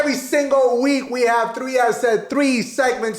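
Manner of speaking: high announcer intro, slowing at the end; big host-style segment intro; show announcer. Acted.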